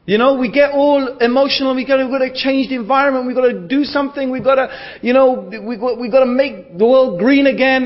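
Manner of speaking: lightly hammed-up activist zeal; mock earnest campaigner. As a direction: parody the fired-up do-gooders. Mocking emotional campaigners.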